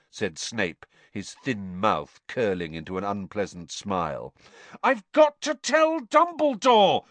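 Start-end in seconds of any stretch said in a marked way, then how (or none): 4.8-7.1 high, loud, desperate yell; frantic high shout. A narrator's reading. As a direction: yell it slowly and insistently. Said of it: "Harry yelled".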